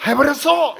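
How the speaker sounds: 해버렸어 shouted high and loud in Gyeongsang tune; Gyeongsang exclaim. Shown as a demonstration. Preacher repeats his sermon line in dialect, loud. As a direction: belt out 해버렸어 like a Busan man. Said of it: "제가 설교하면서".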